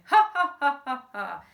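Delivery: high, loud mock laughter. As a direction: cackle high and loud like a henchman. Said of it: "fingers started laughing".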